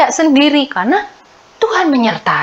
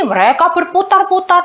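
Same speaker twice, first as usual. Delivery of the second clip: usual speaking voice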